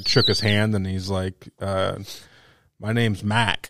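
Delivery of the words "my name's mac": put-on grandpa's thick regional accent on "Mac"; lightly accented "Mac". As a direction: imitate an accented grandpa introducing himself. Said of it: "That fucking accent's tough".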